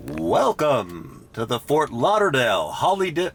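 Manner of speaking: a lightly voiced tour-guide welcome that trips; playing announcer, botching the line; mock announcer welcome. Driver greets riders as a mock announcer, fumbling. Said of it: "why do I fuck this up".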